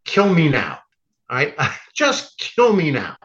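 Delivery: fed-up plea, slowing at the end; exasperated Moses. Retold or imitated. Moses fed up with the Israelites, an exasperated plea to God. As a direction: beg like a man at the end of his rope. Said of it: "and says to God".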